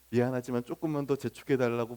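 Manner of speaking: low, softened plea; careful, apologetic request. Acted. Diner apologetically asking the waiter to hurry things, carefully. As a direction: ask cautiously, keeping it soft. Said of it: "더 조심스럽게".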